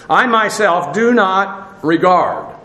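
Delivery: slow reading; stress on do. Shown as a demonstration. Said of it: "emphasis on the front end".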